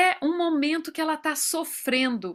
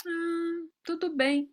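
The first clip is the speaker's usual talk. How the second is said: dismissive; 4 semitones higher, 4 dB quieter, slower than usual. Retold or imitated. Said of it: "olhar pra mim e falar assim".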